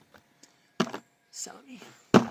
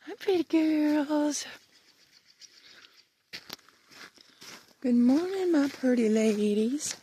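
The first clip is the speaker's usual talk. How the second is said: high pet voice; 4 semitones higher than usual. Real, not acted. Greeting the horses.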